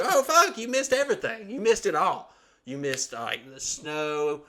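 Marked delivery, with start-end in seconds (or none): 0.0-2.3 higher, louder laughing rant; laughing outrage. Retold or imitated. Son scolding mom about missing everything, high and laughing. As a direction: scold her through laughter.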